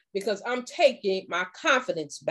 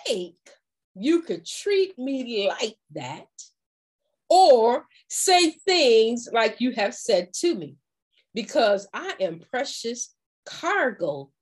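calm firm apology; slower than usual. Shown as a demonstration. Speaking to someone who mistreated her, slow and calm. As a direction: set the boundary gently but firmly. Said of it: "that's when you're going to let them know".

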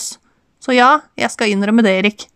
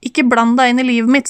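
shouting; 3 semitones higher than usual. Acted. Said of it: "skrek Erik".

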